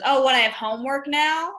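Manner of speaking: mock-indignant mom. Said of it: "I asked my mom, and she goes".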